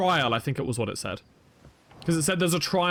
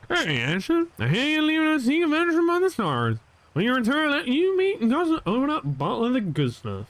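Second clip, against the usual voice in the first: frontier hick voice; 9 semitones higher than usual. Acted. Voicing the game's NPC line.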